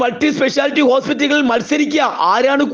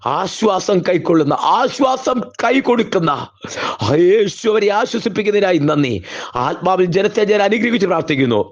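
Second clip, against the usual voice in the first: murmured prayer of blessing, lower and quicker; closing prayer; 3 semitones lower than usual. Acted. Pastor closing the sermon, blessing the church in hushed prayer.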